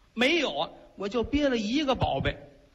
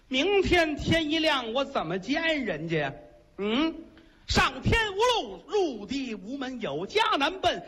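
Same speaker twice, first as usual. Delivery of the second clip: tearful lament; 4 semitones higher than usual. Acted. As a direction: wail the hopelessness in a half-sung rise. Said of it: "眼泪下来了".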